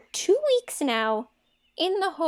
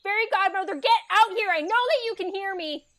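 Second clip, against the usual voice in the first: loud, raised-pitch summons; calling out; 5 semitones higher, 6 dB louder than usual. Acted. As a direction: call out impatiently for someone to appear. Summons the fairy godmother impatiently.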